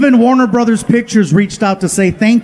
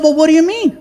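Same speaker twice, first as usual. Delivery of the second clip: higher playing-dumb voice; high innocent question; 8 semitones higher, faster than usual. Comic feigning innocence to producers, high-pitched. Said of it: "I said".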